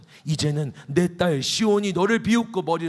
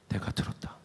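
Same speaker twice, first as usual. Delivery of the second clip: God's reply, breathed softly; whispered; 10 dB quieter than usual. Acted. God telling Hezekiah in a whisper. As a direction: hush the final words.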